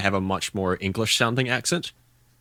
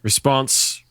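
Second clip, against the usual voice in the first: Kiwi accent; 5 semitones higher than usual. Shown as a demonstration. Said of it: "give me a word".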